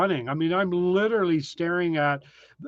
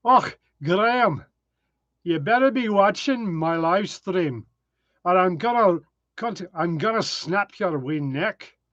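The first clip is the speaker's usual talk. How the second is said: Scottish. Pretend. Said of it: "Here it is in Scottish".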